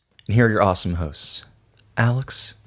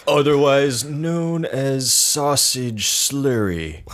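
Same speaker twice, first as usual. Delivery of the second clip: slow silly voice; 5 semitones higher, much slower than usual. Acted. Joins the bit.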